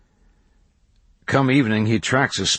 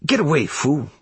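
higher, mild rustic scolding; lightly voiced country kid; shooing the mule; 7 semitones higher than usual. A narrator's reading. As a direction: shoo an animal off.

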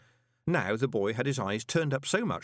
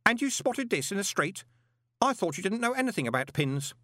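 high-pitched astonished question; amazed boy's high voice; 11 semitones higher than usual. Acted. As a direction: ask it in wide-eyed wonder. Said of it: "looked up at Moist in amazement".

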